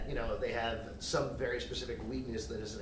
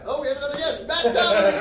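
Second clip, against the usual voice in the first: excited announcement; 13 semitones higher, 13 dB louder than usual. Real, not acted. Host announces arriving guest.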